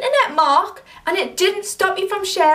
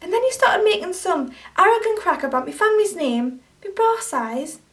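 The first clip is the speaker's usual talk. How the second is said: angry confrontation; 3 semitones higher than usual. Acted. To Mark, for calling her a bitch online: angry and accusing. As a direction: tear into him for what he posted.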